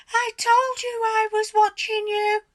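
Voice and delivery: put-on high, loud gloating old hag voice; cackling hag. A narrator's reading. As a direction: crow it at him like a triumphant witch. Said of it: "cackled Missus Twit".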